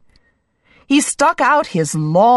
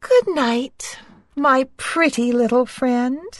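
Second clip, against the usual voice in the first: tender goodnight; 5 semitones higher than usual. Acted. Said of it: "and she said".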